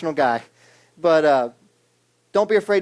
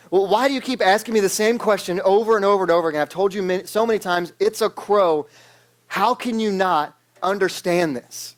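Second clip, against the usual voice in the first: son losing it; 4 semitones higher than usual. Retold or imitated. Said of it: "this time the son lost it".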